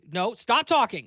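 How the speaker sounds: high, emphatic mock telling-off; playful scolding. Real, not acted. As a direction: cut them off, slow and loud. Playful quarrel over reading the question.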